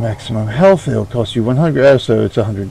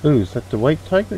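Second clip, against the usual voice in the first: excited; 5 semitones higher, faster than usual. Real, not acted. Spots the white tiger.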